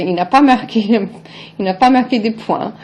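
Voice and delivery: chuckling, il n'a pas marqué des points; laughing remark. Retold or imitated. Mocking someone's faux pas, laughing. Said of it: "you say".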